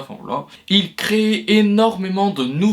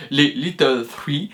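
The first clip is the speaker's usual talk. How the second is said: Little Three in a slower, light mock English accent; slower than usual. Shown as a demonstration. Student naming the small studios tries Little Three in a mock English accent. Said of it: "avec mon accent anglais ce serait mieux".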